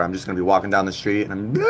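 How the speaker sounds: laughing while pretending to cry; a playful mock sob that breaks into a laugh; laughing fake cry. Real, not acted. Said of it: "I'm gonna start crying one day".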